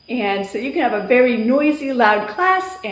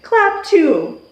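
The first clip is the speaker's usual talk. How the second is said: teacher call; 6 semitones higher, 3 dB louder than usual. Shown as a demonstration. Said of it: "I have them do a movement".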